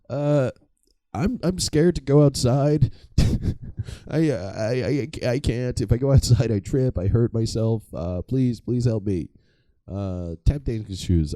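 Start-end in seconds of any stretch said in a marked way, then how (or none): 0.1-9.3 high, timid pleading voice; a hammed-up scared plea, pitched up; mock scared. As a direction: play a frightened guy begging for help. Phil begs, scared.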